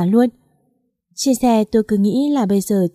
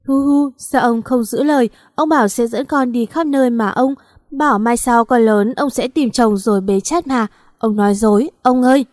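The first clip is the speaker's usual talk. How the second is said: sobbing reproach; 2 semitones higher than usual. Acted. Granddaughter sobbing over grandfather, tearful reproach. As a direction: cry and blame him for leaving.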